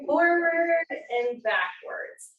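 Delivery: slow cue. Shown as a demonstration. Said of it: "teacher shows the slow motion cue".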